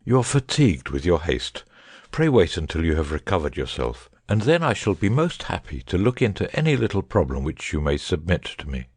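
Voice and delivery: unhurried, reassuring chat; soothing Holmes. A narrator's reading. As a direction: gently talk him down from his distress. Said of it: "easy, soothing tones which he knew so well how to employ".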